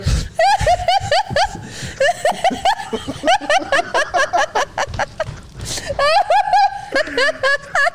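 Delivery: high wheezing crying laugh; hysterical laughter. Real, not acted. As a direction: laugh till you cry.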